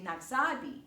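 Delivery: "nagsabi" said nag-SA-bi; stress on sa. Shown as a demonstration. Teacher pointing out stress to learners, "nagsabi" stressed on SA. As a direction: lengthen the "sa" in "nagsabi". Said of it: "那个是在sa的上面".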